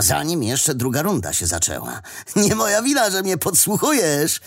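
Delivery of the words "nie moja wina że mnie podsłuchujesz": high-pitched teasing comeback; amused retort. A narrator's reading. Wadim teasing his friend for listening in, amused. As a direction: toss it back lightly, pitched up. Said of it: "zaśmiał się Wadim".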